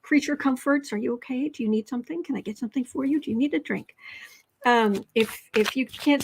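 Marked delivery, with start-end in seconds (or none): 0.9-4.0 soft, doting check-in, a touch quieter; gentle nurturing fuss; fussing caretaker. Retold or imitated. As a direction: coo over someone like a mother hen. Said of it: "because that's what Cancer Moon does".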